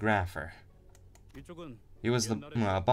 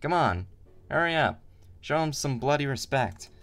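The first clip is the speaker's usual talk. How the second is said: raised, higher rowdy Cockney boss; gang boss voice; 5 semitones higher than usual. Acted. Boss scolding his lads over Heathcliff, hammed-up rowdy gang boss. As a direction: bark it like a rough old gang boss.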